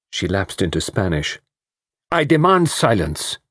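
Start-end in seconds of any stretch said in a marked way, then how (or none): 2.1-3.4 cried out. A narrator's reading. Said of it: "cried Poirot".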